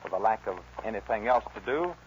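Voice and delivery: measured dramatic radio narration; old-time radio storyteller; story narration. Acted. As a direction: tell the outlaw's tale to the listeners. Narrates the Billy the Kid tale.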